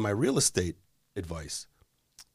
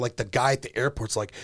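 ordinary talk

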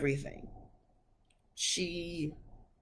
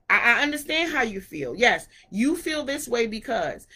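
understanding mom; 5 semitones higher than usual. Retold or imitated. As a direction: ease them down with patient understanding. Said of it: "speak to them, to get them to understand".

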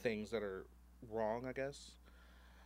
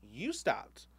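louder, quick sassy rant; 4 semitones higher, 5 dB louder than usual. Retold or imitated. Ranting at the man who stopped at his table, louder and fast. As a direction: rattle off the reasons, exasperated.

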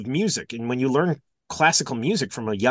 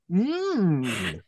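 gasp, then disgusted groan; hammed-up groan of revulsion; grossed-out groan; 5 semitones higher than usual. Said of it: "How's that for a gross out".

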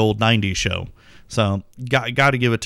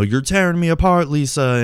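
lightly imitated movie line, pitched higher; quoted movie meme; 5 semitones higher than usual. Podcaster quoting a long-running movie meme, lightly mock-dramatic. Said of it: "long-running meme and joke".

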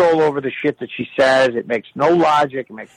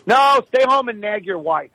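higher, mock-scolding mother; dismissive mother; 6 semitones higher than usual. Mother refusing son's visit, high scolding voice. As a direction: imitate a mother sending her son away. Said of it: "She's like".

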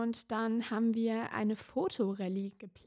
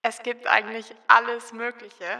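voice effect; 11 dB louder than usual. Shown as a demonstration. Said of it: "wie ihr hört".

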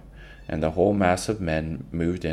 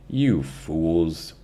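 laughing. Acted. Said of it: "Big Jerry laughed".

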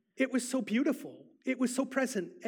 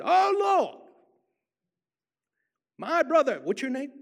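loud, high sing-song prayer in imitated African-American voice; 5 semitones higher, 7 dB louder than usual. Trooper prays over a stranger in Einstein Bagel, sing-song imitation. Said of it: "in his sing-song African-American voice".

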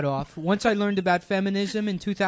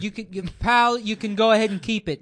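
higher, mock-defiant retort; 4 semitones higher, 4 dB louder than usual. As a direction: tell them off with mock bravado. Acted defiant words to Republicans.

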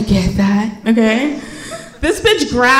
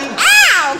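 high yelp of "ow"; mock pain yelp; 7 semitones higher than usual. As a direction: yelp as if being shoved, hammed-up. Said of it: "'cause it hurt".

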